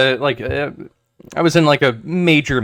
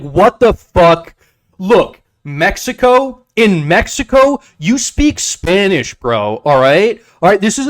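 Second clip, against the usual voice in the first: angry local; 7 semitones higher, 4 dB louder than usual. Retold or imitated. Local scolding American expats, high loud mock rant. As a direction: yell it like an offended local. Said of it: "they're like".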